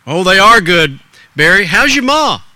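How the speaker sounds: loud, folksy storekeeper; lightly voiced friendly shop owner; store owner. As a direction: chat like a small-town grocer. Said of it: "between Mister Miller, the store owner".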